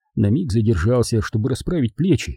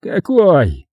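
higher, louder eager question; raised, drawn-out eagerness; perking up; 6 semitones higher, 5 dB louder than usual. A narrator's reading. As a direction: ask with sudden interest. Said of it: "оживился Джайлс".

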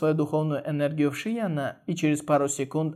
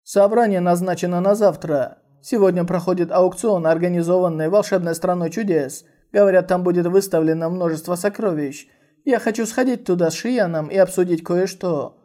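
smiling; 2 semitones higher than usual. Acted. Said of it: "с улыбкой сказал Е Джан Фэн".

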